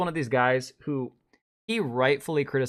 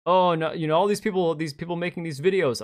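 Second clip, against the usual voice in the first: mock whining; 4 semitones higher, 5 dB louder than usual. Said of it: "bitching about how".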